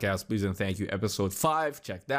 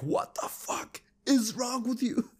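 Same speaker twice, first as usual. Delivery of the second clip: mock teacher snap; 11 semitones higher, slower than usual. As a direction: imitate a fed-up teacher losing it, pitched way up. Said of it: "they would just snap at me".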